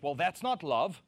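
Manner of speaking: mock a wounded complainer; hurt feelings whine. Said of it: "if their feelings are hurt".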